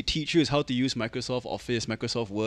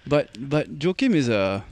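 put-on Australian accent. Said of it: "In an Australian accent".

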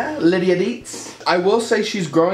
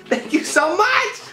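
high thank you; 14 semitones higher, slower than usual. Real, not acted. Thanking for pastels.

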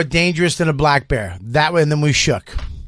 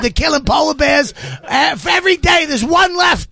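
high shouting outburst; overexcited shout about polar bears; rising shout; 9 semitones higher than usual. Real, not acted. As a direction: yell it out, climbing up. Heated bear argument.

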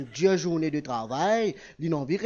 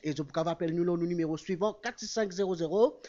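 radio host. Acted. Host opens radio show.

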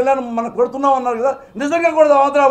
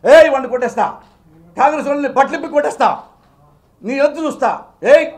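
imitating a fired-up rally shout, raised; hammed-up provoking threat, louder at the start; mock angry threat; 2 semitones higher, 4 dB louder than usual. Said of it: "ఎప్పుడు ఎమోషనల్గా మాట్లాడతావు". (రెచ్చగొట్టే బెదిరింపును వెక్కిరిస్తూ అనుకరణ)

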